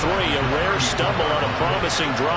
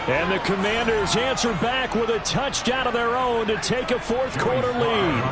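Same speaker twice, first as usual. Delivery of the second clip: higher, ringing touchdown call; 5 semitones higher than usual. Real, not acted. Announcer calling the Commanders touchdown to viewers, excited. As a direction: sell the go-ahead score.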